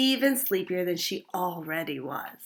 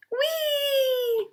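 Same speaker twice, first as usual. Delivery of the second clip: gleeful shout. Acted. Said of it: "she shouted".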